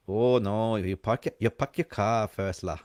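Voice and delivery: imitated Malaysian accent with la; Malaysian English. Shown as a demonstration. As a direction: demonstrate Malaysian speech, ending on la. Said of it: "You speak like this".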